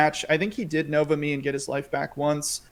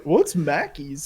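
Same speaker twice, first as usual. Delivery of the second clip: clueless quote; much slower than usual. Retold or imitated. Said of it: "I probably looked like an idiot".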